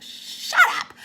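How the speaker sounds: breathy whispered shut up; playful whispered "Shut up"; mock whisper. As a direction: whisper it in fake outrage. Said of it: "it's like".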